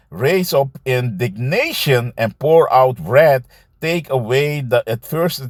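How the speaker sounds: slow, deliberate scripture read; slow, weighty preaching read. Acted. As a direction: proclaim the verse slowly. Reads scripture aloud.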